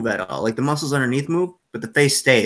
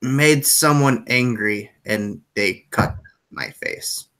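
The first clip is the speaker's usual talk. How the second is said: sorrowful stranger; much slower than usual. Acted. Scarred man explaining his scars to a player, sorrowful.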